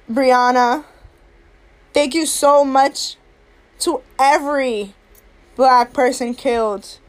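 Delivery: honour each name gently; solemn tribute. Real, not acted. Tribute to victims.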